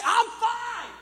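hammed-up annoyed teen shout; irritated teenager. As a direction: shout it like a fed-up kid. Teen brushing off concern.

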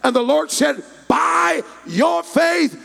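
loud, fervent story climax; full-force preaching. Real, not acted. Preacher telling how Jesus healed the beggar, loud preaching. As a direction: build to a held, shouted pronouncement.

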